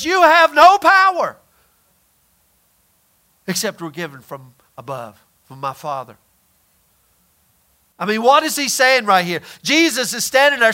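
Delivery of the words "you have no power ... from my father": preacher's booming quote fading to low; emphatic declaration. Retold or imitated. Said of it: "Jesus stands there and says".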